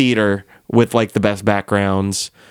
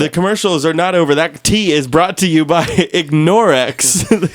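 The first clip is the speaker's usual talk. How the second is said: ad read; 6 semitones higher than usual. Pretend. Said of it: "The commercial's not over yet".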